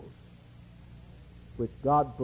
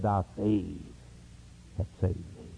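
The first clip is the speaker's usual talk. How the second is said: tender low voice of Christ; 10 semitones lower, 9 dB quieter than usual. Retold or imitated. Christ speaking gently to the blind man, softly and low. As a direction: lower and softer, gently. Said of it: "He said".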